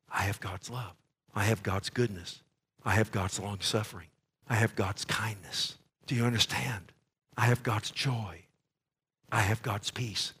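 low, soft, intimate repetition; hushed sincere preaching. Acted. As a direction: speak each promise quietly and earnestly.

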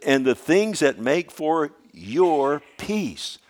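high, loud, slow lament; preacher voicing Jesus, loud and slow; impassioned quote. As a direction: cry it out over the city.

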